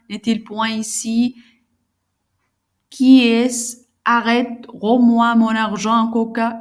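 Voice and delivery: mildly agitated dramatic reading of a monologue; a hint of a panicked Harpagon; lightly acted robbed miser. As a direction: read the miser's frantic questions with restrained urgency.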